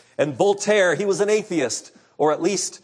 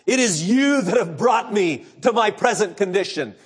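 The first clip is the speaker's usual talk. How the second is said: raging dying man; 2 semitones higher than usual. Retold or imitated. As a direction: drive them away in fury. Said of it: "He gnashed and raged at his friends".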